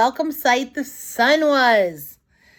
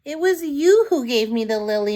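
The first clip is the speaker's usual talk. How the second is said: squealed with delight; 3 semitones higher than usual. Acted. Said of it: "Maggie squealed with delight".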